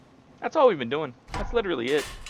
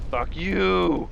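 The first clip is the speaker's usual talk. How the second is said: angry crying; 8 semitones higher, 5 dB louder than usual. Real, not acted. Angry at enemy.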